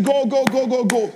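quick mock cheering; loudspeaker cheering. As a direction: imitate spectators urging racers on. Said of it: "blasting on loudspeakers and saying".

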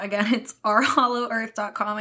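light laugh breaking into the words; laughing while saying it. Real, not acted. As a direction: try to get it out without laughing. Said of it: "I can't even say it without laughing".

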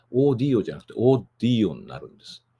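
オーディオ first with a single d, then オーディオ with a long doubled d; doubled consonant demo. Shown as a demonstration. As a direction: contrast オーディオ said plainly with オーディオ said with a held dd, as in O Dio. (「オーディオ」を単子音の後に二重子音で言い分ける)

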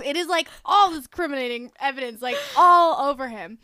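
talking through a laugh; amused laughter. Real, not acted. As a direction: let real giggles break into it. Laughing while recounting incriminating evidence.

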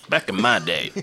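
lightly voiced old-timer; a hint of a grumbling old man. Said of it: "We're old now".

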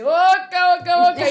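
loud, high football chant; cántico de hincha. Retold or imitated. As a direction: chant it out like a fan in the stands. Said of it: "a veces canta la gente". (cántico futbolero fuerte y agudo)

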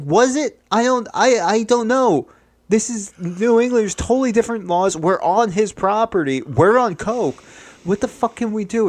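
high-pitched, frantic spiral; acted panic. Man on coke to his friend after a killing, panicking. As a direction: rattle it out high, losing your cool.

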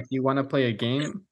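lightly voiced low killer line; a hint of the Scream caller; Ghostface voice. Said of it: "is it Scream where they're like".

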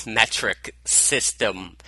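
words mushed without teeth; mouth full. Real, not acted. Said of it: "Boy, can't talk today".

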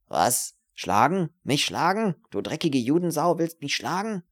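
loud, rising incredulous questions; indignant rage climbing in pitch; outraged fury. Acted. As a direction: spit out insults after being slapped. Slapped man rages at her.

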